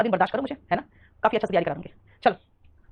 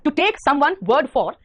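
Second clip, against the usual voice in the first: slow dictation; 3 semitones higher, 3 dB louder, much slower than usual. Shown as a demonstration. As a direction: spell out the definition word by word, slowly. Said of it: "इसका मतलब है".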